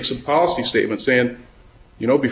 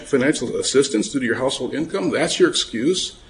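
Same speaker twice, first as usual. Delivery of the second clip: mildly disapproving; 3 semitones higher than usual. Retold or imitated. Lawyer voicing the department's reply to a claimant, mildly disapproving. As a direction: retell an official's displeased challenge, pitch lifted. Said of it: "didn't look very happily on that particular point of view".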